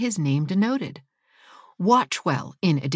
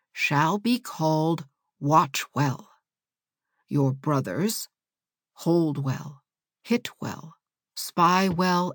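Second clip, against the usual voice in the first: put-on old woman voice; 2 semitones lower, slower than usual. Old woman bestows names.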